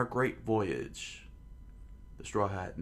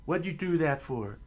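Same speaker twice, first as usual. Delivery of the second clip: raised, high exasperated question; scolding; 7 semitones higher, 3 dB louder than usual. Acted. Straw Hat Man scolds Luffy, raised and exasperated. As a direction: demand an answer, scolding.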